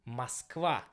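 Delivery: Moskva with the first o reduced to an a sound; Moskva, unstressed o said as a; Russian Moskva. Shown as a demonstration. Teacher showing how she really says Moskva in Russian. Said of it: "it will be pronounced as".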